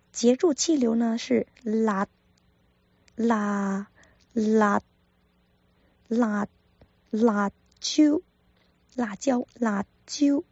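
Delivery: 辣 ending with tongue tip stopping the air; Cantonese laat. Shown as a demonstration. Teacher repeating 辣 correctly for learners. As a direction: cut the air short after 辣. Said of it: "舌尖要轻抵上颚".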